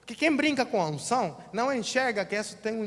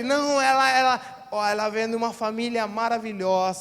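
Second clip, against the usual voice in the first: raised voice; 6 dB louder than usual. Acted. Pastor voices indignant father.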